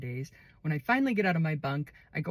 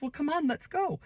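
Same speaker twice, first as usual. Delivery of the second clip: higher, easy-going invitation; friendly inmate; 10 semitones higher than usual. Retold or imitated. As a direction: take her by the hand. Too Tall voiced leading her.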